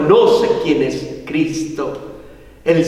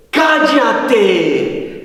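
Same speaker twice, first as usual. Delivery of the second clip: drawn-out command, higher pitch; stern rebuke; 3 semitones higher than usual. Retold or imitated. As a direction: order the unclean spirit to be silent. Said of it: "reprende al espíritu inmundo y le dice".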